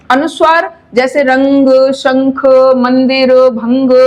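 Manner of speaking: रंग said with the nasal sound clearly through the nose; slow example nasal words; nasal demo words. Shown as a demonstration. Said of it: "स्वर निकलता है नासिका से".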